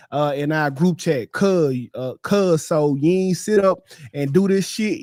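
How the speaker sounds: put-on hood Memphis accent. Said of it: "I speak fluent hood rap".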